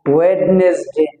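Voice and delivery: ওয়েডনেসডে with the d sounded, "wed-nes-de"; common mispronunciation. Shown as a demonstration. Teacher listing days as we usually say them, common mispronunciation. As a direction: say every consonant of ওয়েডনেসডে. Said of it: "আমরা সাধারণত এভাবেই বলে থাকি".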